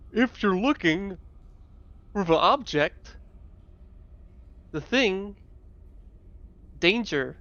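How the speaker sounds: high, slow, drawn-out walrus creature. Acted. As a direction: stretch it out like a big sea beast. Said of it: "let me get a walrus voice".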